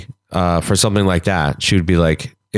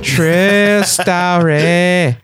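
True story stretched slow and much higher; drawn-out true story; 8 semitones higher, much slower than usual. Acted. Echoing the joke, True story drawn out high.

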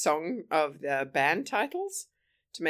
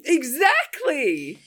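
emphatic; 9 semitones higher, 8 dB louder, much slower than usual. Real, not acted. Emphatic agreement.

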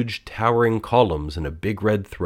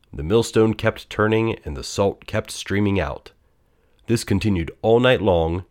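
ordinary delivery, nothing marked

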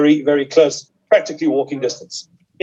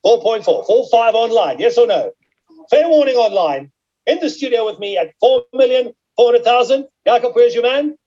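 auction bid spotter; 2 semitones higher than usual. Real, not acted. Auctioneer calling bids live.

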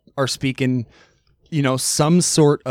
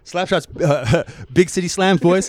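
light Canadian hockey-bro banter; Letterkenny talk; faster than usual. Retold or imitated. Imitating Letterkenny characters with a friend, light bro banter. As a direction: hype the boys Letterkenny style. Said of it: "talking like those two kids".

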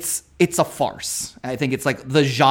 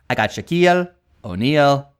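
weird voice. Retold or imitated. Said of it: "in the weirdest voice and in the weirdest delivery".

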